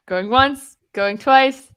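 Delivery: rising loud auction call; auctioneer. Acted. Auction host calling bids.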